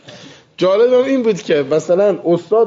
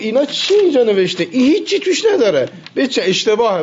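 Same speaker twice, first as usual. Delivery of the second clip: mock teacher rant; 7 semitones higher than usual. Bossy teacher mocked, ordering tearing.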